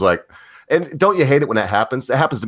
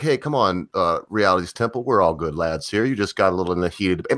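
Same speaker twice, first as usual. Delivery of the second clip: low, easygoing appeal; smooth it over, lower and unhurried; coaxing peacemaker; 4 semitones lower than usual. Retold or imitated. Speaker calls a sulking rival back to debate, coaxing.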